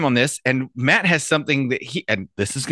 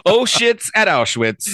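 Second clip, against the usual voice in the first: announcer pun; 8 semitones higher, much slower than usual. Pretend. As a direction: drawl it out like a showman.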